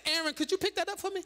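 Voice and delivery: quick, breezy ask to Aaron; casual request. Retold or imitated. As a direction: toss it off lightly, fast. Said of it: "I can say".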